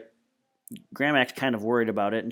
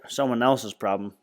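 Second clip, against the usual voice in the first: sarcastic quote. Retold or imitated.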